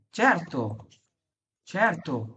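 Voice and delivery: "certo" with c said as ch; ch pronunciation. Shown as a demonstration. Teacher shows c before e, "certo" with ch sound. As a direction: say "certo" as CHER-to, falling. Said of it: "এখানে চ হইল".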